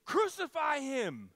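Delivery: high, loud mob chant; bay for blood; angry mob. Retold or imitated. Same crowd turning on Jesus, loud angry mob chant. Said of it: "is going to be saying".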